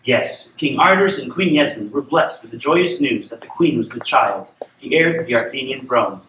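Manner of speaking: measured storybook reading; storyteller setting up a royal tale; bedtime story narration. A narrator's reading. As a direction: read a fairy tale aloud to a child.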